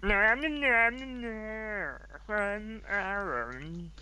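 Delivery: high, hammed-up Dutch accent; slow, silly Dutch accent. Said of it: "I gotta do a Dutch accent".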